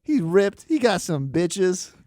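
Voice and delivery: put-on loud, high racist old lady voice; white grandma impression. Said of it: "it was a good impression of my white grandma".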